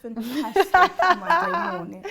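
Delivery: put-on British presenter greeting; British-accented morning welcome. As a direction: open the show in a British accent. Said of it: "I think the British accent is the most difficult".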